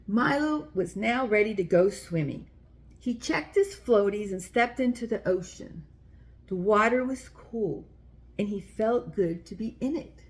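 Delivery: put-on gentle read-aloud for little kids; children's story reading. A narrator's reading. Reading a picture book aloud.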